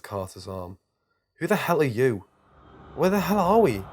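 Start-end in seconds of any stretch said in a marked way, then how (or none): 1.4-3.8 loud, high defiant shouts; brave shout. A narrator's reading. Boy facing a demon, shouting defiant questions. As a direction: shout louder than you feel brave. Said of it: "I shouted".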